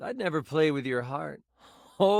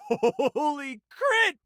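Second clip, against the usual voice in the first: high, long-drawn exclamation; slow, high-pitched burst of amazement; amazed; 9 semitones higher, much slower than usual. Acted. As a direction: stretch it out in awestruck excitement.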